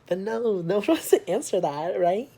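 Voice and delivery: high, loud laughing disbelief; laughing exasperation. Real, not acted. Vlogger laughing at viewers who never answer.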